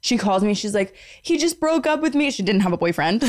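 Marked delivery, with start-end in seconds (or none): 1.2-2.3 mock crying. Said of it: "she pretends sobbing".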